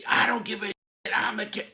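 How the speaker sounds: high, loud and scornful; defiant retort. Retold or imitated. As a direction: spit it back at him with contempt. Made man refuses the apology.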